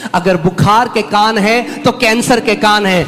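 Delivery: loud chant-like escalation, rising in pitch; preacher working up to a climax; building preaching. Real, not acted. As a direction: hammer each item harder, climbing to full force.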